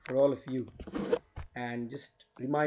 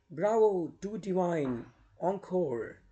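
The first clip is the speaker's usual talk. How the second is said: higher-pitched theatrical praise; acclaiming cheer; 5 semitones higher, 4 dB louder, slower than usual. Acted. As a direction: applaud the singer as an enraptured audience. Bog audience cheers the nightingale.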